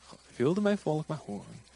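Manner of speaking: underplay it, dropping pitch and volume; casual muted reading. Shown as a demonstration. Preacher showing how God doesn't say it, muted reading. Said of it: "niet zo van".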